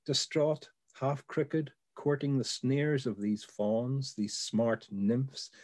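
measured, unhurried recitation with pauses between images; poem reading. Acted. Reading the bicycle poem aloud for a colleague, in a measured recital. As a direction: read it like a poem, letting each phrase land.

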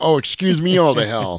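high, sarcastic mock indignation; acted exasperation. Dad quoting his retort to smart-ass kids, mock exasperated. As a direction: pitch it up like an exasperated comeback. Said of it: "gets this exasperated expression".

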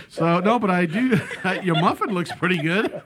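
giggling through the words; laughing. Real, not acted. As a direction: talk while laughing.

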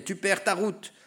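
high-pitched cry of alarm. A narrator's reading. Father crying to Icarus as he falls, crying out. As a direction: shout a warning, pitched well up. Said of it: "son père alors criait".

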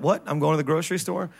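fast, mildly indignant question; mock surprise. Husband to wife, lightly mock-shocked about shopping. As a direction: play dumb about the errand. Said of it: "You're like".

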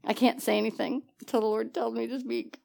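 a hint of hushed, solemn piety; mock pious hush. Pious silent submission act.

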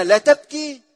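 لا تبكي thrown out loud and high; loud rhetorical quote. Acted. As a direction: fling the words out as an absurd demand.

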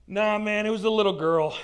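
loud, insistent correction; blurted admission. Acted. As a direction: cut in loudly to set the record straight.

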